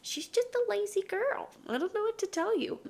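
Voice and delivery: high squeaky voice for the dog; lazy girl voice. Pretend. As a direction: speak for the dog in a high, fast little voice. Voicing lazy dog persona.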